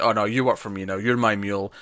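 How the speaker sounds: plain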